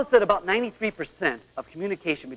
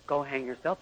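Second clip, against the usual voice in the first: soft, lower go hang yourself; mild brush-off; 4 semitones lower, 9 dB quieter than usual. Shown as a demonstration. Wife a little hurt brushing husband off, soft and light. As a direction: toss it off gently, yourself rising. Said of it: "her spirit's closed just a little".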